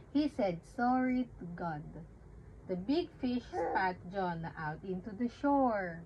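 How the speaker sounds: put-on simple Bible story read to a baby; reading to children. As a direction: tell it gently like a bedtime story. Reads Jonah story to baby.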